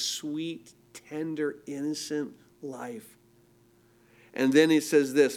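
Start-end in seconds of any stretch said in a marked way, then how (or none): 0.0-3.1 soft, gentle wonder; quietly tender description. Real, not acted. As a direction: ease down softly, tenderly. Describing the tenderness of new life.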